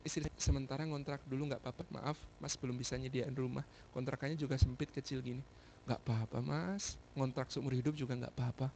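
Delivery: low, very soft husband-and-wife talk; quiet retold apology and comfort; tender reassurance. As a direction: speak gently and low, just between spouses.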